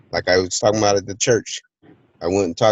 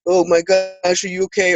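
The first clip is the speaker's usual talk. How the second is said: high, hammed-up panicked concern; mock fuss; 9 semitones higher than usual. Mocking a panicking parent, high and hammed-up. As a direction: play the over-worried parent. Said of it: "groveling and complaining".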